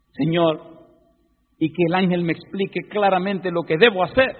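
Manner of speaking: retelling a despairing woman's prayer in a lifted voice; desperate prayer. Retold or imitated. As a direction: voice her last plea to God, rising as it goes. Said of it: "Y le dije a Dios".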